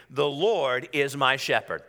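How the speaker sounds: slow, steady declaration; out-loud declaration. Real, not acted. Preacher leads congregation in declaring the verse, slow declaration. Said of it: "declare that with me out loud".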